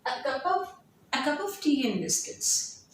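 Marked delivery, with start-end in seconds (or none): 1.1-2.9 "a cup of tea and biscuits" run together, "and" squeezed to a quick n; reduced connected speech. Shown as a demonstration. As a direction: blend "tea and biscuits" into one flow. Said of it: "the plosive sound and stop or D here".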